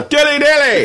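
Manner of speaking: high, loud shouted cheer; yelling Dilly Dilly at a game; yelled cheer. Retold or imitated. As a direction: belt it like cheering a basket from the stands. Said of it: "I'd go".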